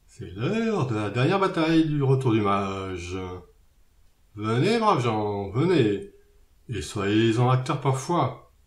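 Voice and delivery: stretched-out stage oratory, swelling on the last phrase; declaiming. Acted. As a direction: declaim it like an artist rallying a crowd. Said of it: "Eubéline l'artiste déclama".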